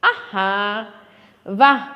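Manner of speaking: teacher acting out अरे, बाप रे, वाह, शाबाश for the class; exclamations. Shown as a demonstration. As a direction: give each interjection its feeling. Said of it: "जैसे".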